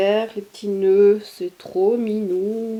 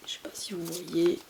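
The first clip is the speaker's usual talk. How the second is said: whisper; 3 semitones lower, 7 dB quieter than usual. Real, not acted. Showing a detail close up.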